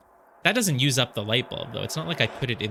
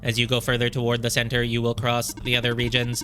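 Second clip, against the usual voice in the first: even, mechanical robot voice. Acted. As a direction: read the line like a droid. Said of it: "oh, I have to do a robot voice".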